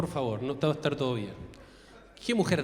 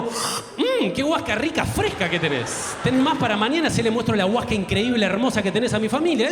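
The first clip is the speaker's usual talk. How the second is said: mock delighted girlfriend; 2 semitones higher than usual. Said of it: "Yo quiero que haga como".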